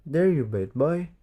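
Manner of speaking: put-on mild angry rebuke of a naughty boy; big sister scolds the boy, half-hearted anger; angry cry. A narrator's reading. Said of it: "cried Katy".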